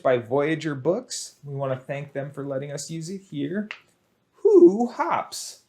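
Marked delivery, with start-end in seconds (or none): 4.4-5.6 high bright call of the title; playful question. Acted. Teacher reads a book title to kids, playful.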